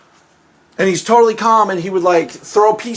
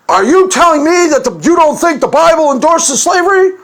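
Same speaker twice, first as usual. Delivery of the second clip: raised, louder mock outrage; indignant challenge; 6 semitones higher, 5 dB louder than usual. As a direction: hit the caller with a loud, higher accusing question. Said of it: "misdirect with something emotionally charged".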